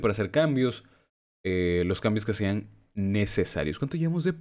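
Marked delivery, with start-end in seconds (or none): 3.8-4.3 hiccup breaking the question; hiccuping mid-sentence. Real, not acted. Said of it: "me dio hipo".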